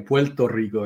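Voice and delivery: Puerto Rico said PWEL-to REE-go, soft Spanish. Shown as a demonstration. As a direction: Puerto Rico the island way, clipped. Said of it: "not like the whole full mouth Puerto Rico".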